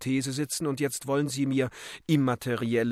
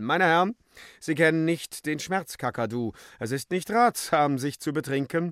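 shrill scolding; 4 semitones higher than usual. Acted. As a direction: snap a warning at the workers. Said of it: "Ein sensibler Kellner keifte".

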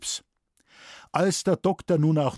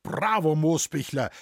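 higher, cheering bravo; begeistert; 4 semitones higher than usual. Acted. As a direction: cheer the forester on. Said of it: "rief der Herr Pfarrer begeistert". (der Pfarrer ruft begeistert Beifall, höher)

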